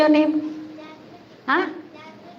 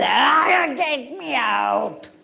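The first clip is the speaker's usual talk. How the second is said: drawn-out wailing plea; slow lion cry for rescue; roaring lion; 3 semitones higher, much slower than usual. Acted. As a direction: roar slowly to be let out. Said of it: "when this lion was".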